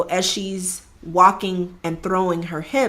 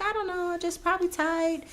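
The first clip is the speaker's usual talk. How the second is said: reluctant mumble; 11 semitones higher, 7 dB quieter, faster than usual. Retold or imitated. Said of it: "And she's like".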